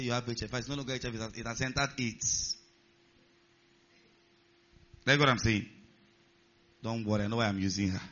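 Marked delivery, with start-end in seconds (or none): 0.0-2.6 low, hushed diagnosis; quiet grave verdict. Acted. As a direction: break bad news softly and low. Acted lab verdict to patient.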